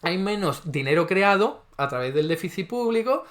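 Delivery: high, mocking take on the rival's excuse; sarcastic imitation of liberal economists; mocking opponent. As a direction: parrot the other side's argument. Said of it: "que nadie me venga a decir".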